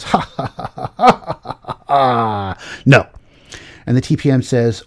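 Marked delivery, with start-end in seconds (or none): 0.0-3.1 mock scornful laugh then a flat no; dismissive laugh. Manager laughing off the program manager's request. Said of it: "The manager goes".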